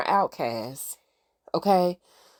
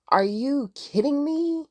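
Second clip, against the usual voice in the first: slow, higher-pitched retold disbelief; utter disbelief; 6 semitones higher than usual. Recapper voicing a woman facing her former captive, in utter disbelief. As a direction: draw it out, acting incredulous. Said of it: "in utter disbelief".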